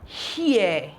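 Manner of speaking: "here" drawn out as hee-eh; "here" as an isolated teaching word, no final r; pronunciation demo. Shown as a demonstration. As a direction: model "here" with a clear h, falling. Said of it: "This is pronounced as".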